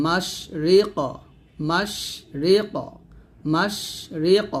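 "মাস রি ক" ending on a bounced q; qalqalah on qaf. Shown as a demonstration. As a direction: say "মাস", then "রি ক" with an echoed q. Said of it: "কফ কলকলা". (কফে কলকলা করে "মাস রি ক")

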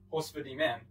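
"Horse for the man" in Belize Creole accent, "for" as "fi", "the" as "di". Shown as a demonstration. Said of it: "the sentence".

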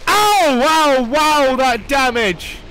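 shocked high yelp. Real, not acted. Hit hard by enemy.

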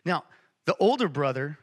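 normal talking voice

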